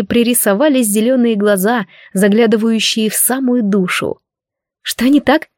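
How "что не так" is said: high puzzled question; a touch of surprise; surprised. Acted. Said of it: "удивилась та".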